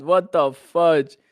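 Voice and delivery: slow, loud, high mock outrage; exaggerated. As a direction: stretch it out in mock disbelief.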